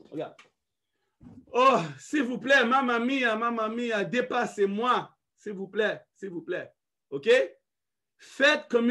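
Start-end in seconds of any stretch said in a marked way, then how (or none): 1.5-6.7 mock pleading. Supplication comique qui s'éteint.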